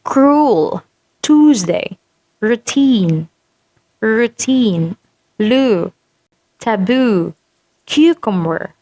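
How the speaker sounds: word list, each said separately with a long oo; spaced, careful model words, oo held; sample word demo. Shown as a demonstration. Teacher reads sample words for the symbol, careful long oo. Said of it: "So the sample words are".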